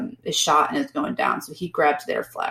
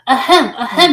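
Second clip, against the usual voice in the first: mock throat clearing; 7 semitones higher, 7 dB louder than usual. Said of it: "he said".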